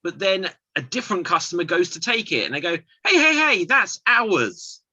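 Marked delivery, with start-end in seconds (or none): 3.1-4.8 high, loud hey hey hey; mock shout. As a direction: bark out a playful claim. Joke character shouting claim.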